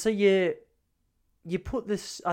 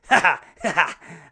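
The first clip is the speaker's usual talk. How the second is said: put-on toddler giggle; 2 semitones higher, 9 dB louder, slower than usual. Toddler laughing, voiced by dad.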